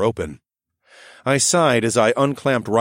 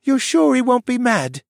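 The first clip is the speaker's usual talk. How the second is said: put-on high, even child voice, dazed and anxious; a sleepwalking boy asking flatly for reassurance; monotone voice; 4 dB louder than usual. A narrator's reading. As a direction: ask it flat, half asleep. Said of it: "he asked in his monotone voice".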